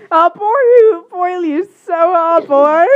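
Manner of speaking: put-on slurred drunk voice. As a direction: sound like a drunk. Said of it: "it sounded like a drunk when I said that".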